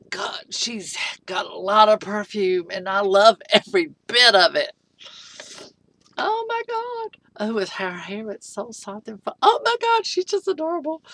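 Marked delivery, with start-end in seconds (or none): 0.1-2.7 whisper. Real, not acted. Sniffing the doll's perfume. 9.4-11.0 high gushing squeal. Real, not acted. Unboxing a doll, squealing high over her cuteness.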